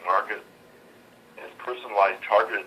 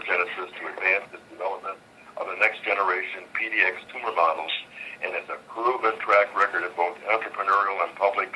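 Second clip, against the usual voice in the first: on speakerphone. Real, not acted. Earnings conference call over phone.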